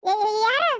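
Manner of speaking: startled stammer, "who's there?"; startled and afraid. Acted. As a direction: jump at a voice behind you. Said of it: "ಅಷ್ಟ್ ಯಾಕ್ ಹೆದರ್ತಿದಿ". (ಬೆಚ್ಚಿಬಿದ್ದು ಹೆದರಿದ ದನಿ)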